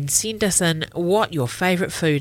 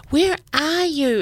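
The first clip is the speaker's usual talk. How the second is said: high, louder call through the house; 11 semitones higher, 3 dB louder than usual. Acted. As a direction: call out searching for someone. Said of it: "Izzy calls".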